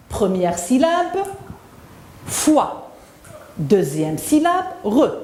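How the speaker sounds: "foi" and "re" sounded separately; syllable by syllable. Shown as a demonstration. Teacher splits la foire for pupils, syllable by syllable. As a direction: split the word, pausing before "foi" and "re". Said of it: "La première syllabe est composée".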